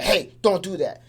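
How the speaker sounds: a mock angry telling-off. Shown as a demonstration. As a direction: snap the warning slowly like you mean it. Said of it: "if I talk kinda, like, angry".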